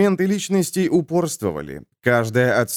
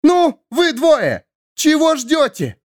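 gruff shout; 13 semitones higher, 4 dB louder, slower than usual. Acted. Deckhand yelling at two idlers, loud and slow. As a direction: shout it high and loud, slowly.

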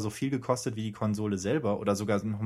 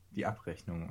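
dramatic trailer voice; 5 semitones lower, 9 dB quieter than usual. Pretend. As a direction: announce it like an ominous film title. Dramatic low title echo. (dramatische Trailerstimme)

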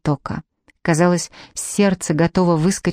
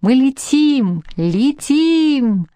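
high, long-drawn exclamations; elated cry; 7 semitones higher, much slower than usual. A narrator's reading. Passenger realising the boat is flying, crying out elated. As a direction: let the words soar in delight. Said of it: "У меня вырвался восторженный истерический смешок".

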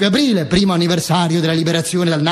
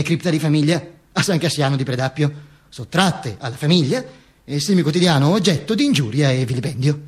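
a lightly voiced dead Mussolini, lower and aggrieved; dead Duce voice; 3 semitones lower than usual. The dead Duce complains to the audience about his grave, lower and aggrieved.

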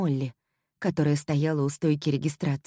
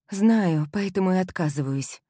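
strained voice; 3 semitones higher than usual. Acted. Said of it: "выдавила я не своим голосом".

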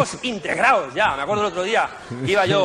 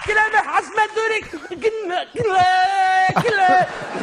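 much higher, louder, slow hammed-up yell; furious vendor yell; 5 dB louder, slower than usual. Comedian voicing the vendor screaming at him in the street, much higher and louder mock yell. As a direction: bellow it like the enraged vendor.

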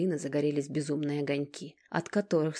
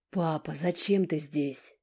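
growled at father at the door; 3 dB louder, slower than usual. Acted. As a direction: snarl the question at him. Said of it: "рыкнула Алина".

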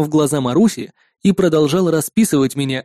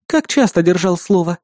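suspicious. Acted. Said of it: "с подозрением спросила напарница".

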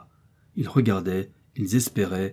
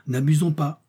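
cautioning; 6 semitones higher than usual. A narrator's reading. Joey cautions his companion.

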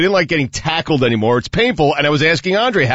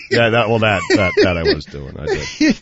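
laughing. Real, not acted. Laughs at being caught.

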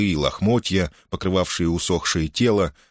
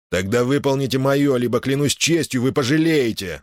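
menacing, higher threatening hiss; sinister hiss; 7 semitones higher than usual. A narrator's reading. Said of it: "зловеще прошипел Алонсо".

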